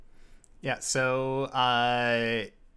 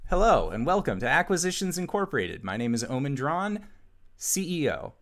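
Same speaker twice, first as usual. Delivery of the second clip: customer service voice; 4 semitones higher, faster than usual. Acted. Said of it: "goes customer service mode".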